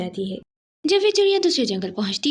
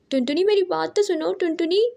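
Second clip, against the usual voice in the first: higher, calling out after a friend who walks away; calling after her; 5 semitones higher than usual. Acted. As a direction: call her name pleadingly, pitched up. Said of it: "उसे आवाज़ें देती रहती है".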